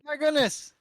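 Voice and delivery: high, loud hammed-up amazement; mock astonishment. Friends marvel at someone risen, mock astonishment. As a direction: gasp it out in pretend wonder.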